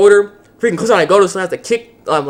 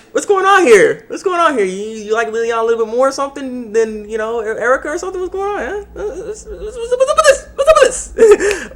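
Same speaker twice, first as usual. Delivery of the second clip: much higher, squealing, breaking into laughter and fake sobs; mock jealous whine; 10 semitones higher than usual. Fan teasing the hero about another girl, squealing mock sobs. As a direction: whine like a betrayed girlfriend, laughing through it.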